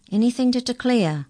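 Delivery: high, loud customs officer rat; high official voice. Acted. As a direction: bark the customs question.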